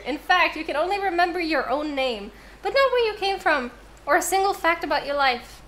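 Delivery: lightly voiced game narration; story narration. Streamer reading the dating game intro to chat, storyteller narration. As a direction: read the scene like a storyteller. Reads the game text aloud.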